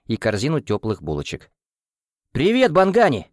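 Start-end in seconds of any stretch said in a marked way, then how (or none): 2.3-3.3 high, loud eager greeting; exclaiming cat. A narrator's reading. Cat greets the cook at breakfast, eager exclaim. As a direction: hail the cook at a tasty breakfast. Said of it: "воскликнул кот с аппетитом".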